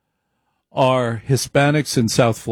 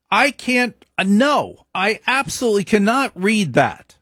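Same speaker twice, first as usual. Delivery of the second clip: high-pitched imitation of an old grandmother; grandmother's denial; 9 semitones higher than usual. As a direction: play the proud immigrant grandmother, voice pitched up. Grandmother voiced denying German.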